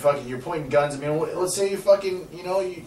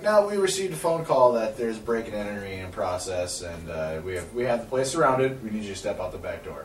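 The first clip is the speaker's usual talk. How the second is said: police voice; 7 semitones lower, 6 dB quieter than usual. Retold or imitated. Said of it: "And they're like".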